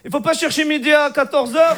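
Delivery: put-on high Moroccan-accented French. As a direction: deliver the pun in a thick Moroccan accent. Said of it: "l'accent arabe".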